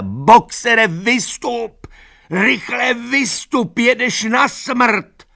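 slow, very high, loud pleading shout; desperate plea. Acted. Lupina begging Boxer to escape, desperate high shout. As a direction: beg him to get out.

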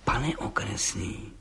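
slow, quiet, vindictive address. A narrator's reading. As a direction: lean in with a spiteful hint. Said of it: "řekl mstivě". (pomalé, tiché, pomstychtivé oslovení)

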